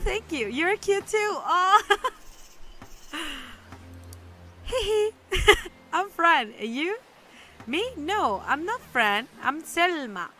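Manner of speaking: high, squeaky and giggly little sprite; tiny cute creature. Acted. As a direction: play a giggling little root spirit, delighted. Voices little Root creature.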